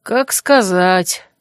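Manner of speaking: slow, musing; thoughtful. Acted. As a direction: mull it over slowly. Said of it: "Задумчиво отозвалась я".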